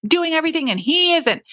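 wife griping about her husband, mock frustrated; frustrated complaining. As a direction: vent like a fed-up wife, half-hammed. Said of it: "so frustrated with him".

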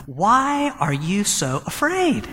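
slow, gentle asking; slow, tender rebuke to frightened friends; gentle question. Retold or imitated. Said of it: "and he says to them".

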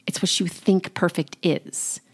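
"think" picked out as the key word; stress on think. Shown as a demonstration. Coach pointing listeners to the one word behind perfectionism, stress on "think". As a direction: lean on "think", the rest unforced. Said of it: "I wanna emphasize the word think".

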